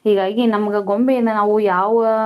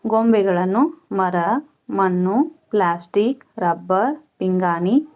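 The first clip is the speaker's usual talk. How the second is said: slow, measured textbook reading; dictation read-out; slower than usual. Real, not acted. Teacher reading questions and answers to pupils, measured dictation. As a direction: read it out phrase by phrase for pupils to copy.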